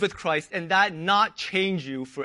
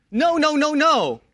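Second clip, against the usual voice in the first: emphatic no; 6 semitones higher, 4 dB louder than usual. Acted. Emphatic repeated denial.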